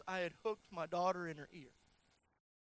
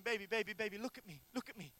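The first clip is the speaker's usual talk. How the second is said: retold soothing father; faster than usual. Father to daughter with a hook in her ear, retold soothing. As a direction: gently reenact calming a hurt child. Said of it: "looking at Kenzie saying".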